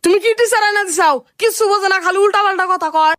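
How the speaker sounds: indignant complaint. Acted. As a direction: complain to mother about the useless teacher. Pupil complains to mother about teacher.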